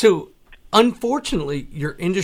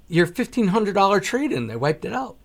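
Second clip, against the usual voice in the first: retold alarm; 7 semitones higher, 4 dB louder than usual. Retold alarm at wiped trade-in.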